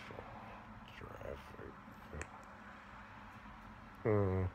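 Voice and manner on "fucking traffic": slow whispered grumble; hissed under the breath; whispered curse. Real, not acted. Muttered curse.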